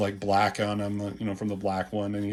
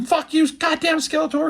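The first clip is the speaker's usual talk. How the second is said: hammed-up hero snarl; 5 dB louder than usual. He-Man voiced in fight.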